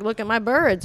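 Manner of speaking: lightly imitated Turkish accent. Turkish coworker showing off his birds, lightly imitated accent. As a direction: show off in a mild Turkish accent. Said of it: "Do it, do it, the accent".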